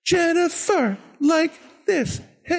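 very high voice with a rhythmic beat; DJ Lance Brock. Acted. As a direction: chant it high, like a kids' show host. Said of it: "like, rhythm to it".

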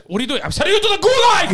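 imitating angry referee. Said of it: "He starts".

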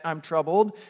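casual shrug, little rising lift on troubled; trivial complaint. Shown as a demonstration. Preacher mocking a petty complaint, lightly breezy. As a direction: toss off "I'm troubled." like a minor annoyance. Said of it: "This isn't just".

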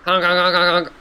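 silly clown honks. Acted. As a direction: honk like a dopey clown. Gamzee honking.

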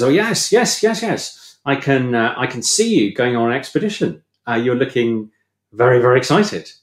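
hammed-up fortune teller gushing a prophecy, no real accent; mock fortune teller. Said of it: "in a very bad Russian accent that I won't try and, uh, and reproduce".

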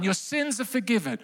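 gentle, declaring the pardon; announced line. Shown as a demonstration. Preacher quotes Jesus's pardon to the crowd, softly. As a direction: say it softly like a verdict. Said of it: "that one line".

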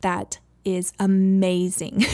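put-on toddler voice. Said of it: "he was like".

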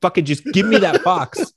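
mildly exasperated villain demand, rising in pitch; pissed-off Doom. Retold or imitated. Podcaster voicing Doom demanding the box, mock pissed off. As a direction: act out losing patience, half in jest. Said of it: "Victor Von Doom is getting fucking pissed".

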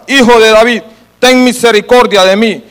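projected, pleading call from the reading. Acted. Blind man calls over those silencing him, restrained crying out. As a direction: read it as a mild cry for mercy. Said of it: "él clamaba mucho más".

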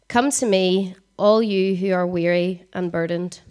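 earnest scripture read. Acted. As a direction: read it out to the congregation. Reads scripture aloud.

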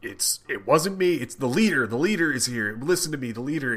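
mock desperate pleading. Podcaster voicing Samson blaming the Leader, mock desperate pleading. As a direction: plead to be believed, pitch lifted.

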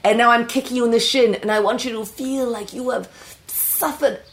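British-accented acting coach, deliberate and commanding. Coach preparing a player to be kicked, commanding. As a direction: drill the actor in a theatrical British accent.

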